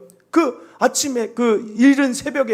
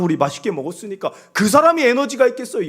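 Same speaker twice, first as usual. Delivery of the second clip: ordinary delivery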